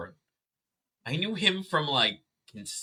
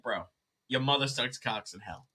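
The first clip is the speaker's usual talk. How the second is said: fake New York accent; 8 dB quieter than usual. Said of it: "fake New York accent".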